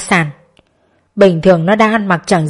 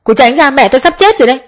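louder, snapping her away; irritated; 5 semitones higher, 3 dB louder, faster than usual. A narrator's reading. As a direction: shove her off with annoyed words. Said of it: "nói giọng bực bội". (giọng bực bội, gắt gỏng)

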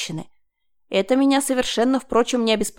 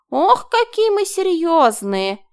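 much higher, slow and louder mocking; slow exaggerated mocking whine; ironic mockery; 8 semitones higher, 6 dB louder, slower than usual. A narrator's reading. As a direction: tease him for being so serious. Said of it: "иронично усмехнулась Марина".

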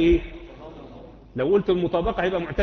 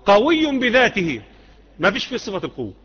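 quoting the Mutazila; 3 semitones higher than usual. Retold or imitated. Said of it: "لأن هم بيقولوا هو".

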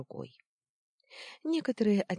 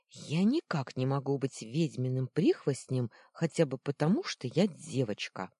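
indignant objection; 4 dB louder than usual. Acted. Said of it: "возразила она".

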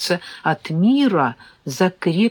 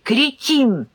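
curt insult; 7 semitones higher than usual. A narrator's reading. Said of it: "припечатал старший брат".

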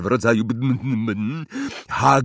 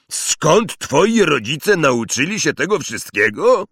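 Hagrid's voice; 6 semitones higher, 5 dB louder than usual. Acted. Giant to Harry, rumbling disbelief. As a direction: play a gruff giant stunned by the Muggles.

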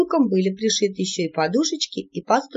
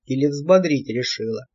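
put-on grumbling old devil voice; 6 semitones lower than usual. A narrator's reading. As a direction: chide his niece, shaken. (ворчливый старый чёрт)

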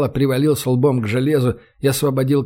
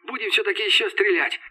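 pleased; 7 semitones higher, 5 dB quieter than usual. A narrator's reading. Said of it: "обрадовался Костя".

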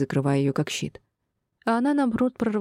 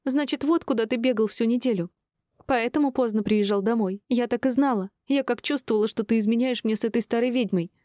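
high-pitched jealous tirade; betrayed wife having it out; accusing; 7 semitones higher than usual. A narrator's reading. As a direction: accuse him in a high, indignant voice. Wife confronts cheating husband on landing.

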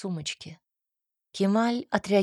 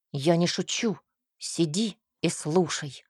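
threatening. A narrator's reading. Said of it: "пригрозил он".

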